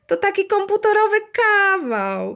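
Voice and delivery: put-on high, gleeful child's voice; hammed-up giggly boy; giggling. A narrator's reading. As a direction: squeal it through mock giggles. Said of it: "chichotał".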